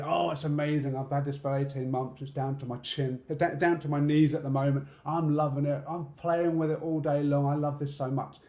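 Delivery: hammed-up beard bragging; mock boastful. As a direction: gush about it, mock proud. Mocking beard lovers.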